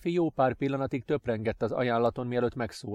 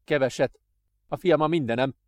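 louder, desperate father close to tears; near-tearful cry; 3 semitones higher, 4 dB louder than usual. Acted. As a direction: cry out, almost breaking. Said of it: "kiáltotta majdnem sírva".

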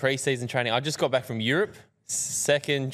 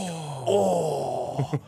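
imitating teammates' groan; 4 semitones higher than usual. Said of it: "the worst sound you could hear is".

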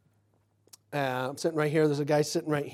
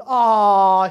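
loud, drawn-out exclamation; retold delighted reaction; 2 semitones higher, 12 dB louder than usual. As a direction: imitate her big amused reaction.

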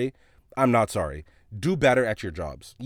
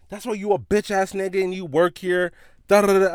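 high-pitched mock rant, louder at the end; imitated yelling; 8 semitones higher, 4 dB louder than usual. Angry shoppers insulting the clerk, mock yelling. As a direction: mimic their ranting, trailing into loud nonsense syllables. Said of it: "And they're yelling".

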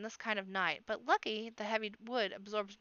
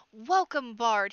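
booming welcome; 10 dB louder, slower than usual. A narrator's reading. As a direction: bellow it across the feasting hall. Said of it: "he shouts in a voice".

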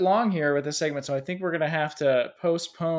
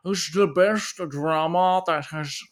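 put-on critic accent; 3 semitones higher, 3 dB louder than usual. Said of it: "a critic accent".

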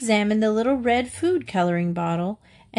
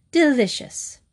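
declared; 6 semitones higher than usual. A narrator's reading. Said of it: "as she declared".

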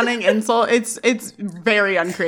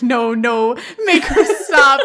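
laughing mock plea; 3 semitones higher, 4 dB louder, slower than usual. Boy begging someone to stop the girl, laughing plea. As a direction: imitate begging while cracking up.

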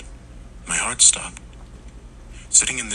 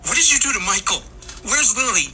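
very high, frantic woman's scream; 4 dB louder, faster than usual. A narrator's reading. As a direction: scream accusations at him, fast and high. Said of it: "began to scream right at Tommy".

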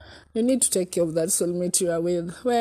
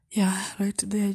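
whisper; 2 semitones higher than usual. Real, not acted. Unvoiced whisper aside.

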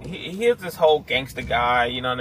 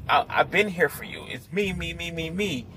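higher, insistent mock protest; angry inner voice; 4 semitones higher than usual. Shadow self insists to Jake it was always there, mildly angry. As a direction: plead your case, repeating with rising agitation. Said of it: "he was getting angry".

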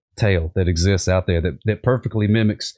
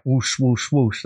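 swish it out three times; tail whoosh sound; 2 semitones higher, much slower than usual. Shown as a demonstration. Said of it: "That's the tail sound".

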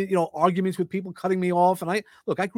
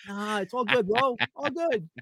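higher-pitched, softening reassurance; placating; 7 semitones higher, 3 dB quieter than usual. Acted. Texter reassures a touchy friend it's all good, placating. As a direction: back down lightly to smooth it over. Acted backing down after friend bristles.

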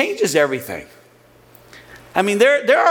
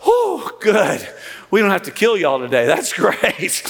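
relieved; 2 semitones higher than usual. Retold or imitated. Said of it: "It's relief".

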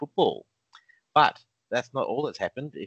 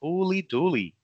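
amazed; 6 semitones higher than usual. Real, not acted. Reacting to the offer.

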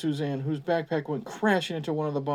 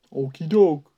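calling out; 8 dB louder, slower than usual. A narrator's reading. Kyle replies from outside.

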